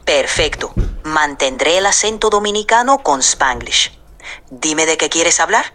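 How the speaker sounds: put-on Dominican accent, mostly Spanish; chatty Dominican accent with Spanglish. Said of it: "puedo hacer un acento dominicano con un poco de Spanglish".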